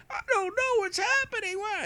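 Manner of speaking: put-on high quavering confused old man. Confused older buyer quoted again.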